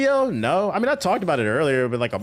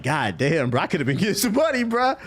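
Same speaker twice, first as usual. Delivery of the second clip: rising higher to a whiny peak; exasperated realization; 4 semitones higher than usual. Retold or imitated. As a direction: climb up as the regret hits.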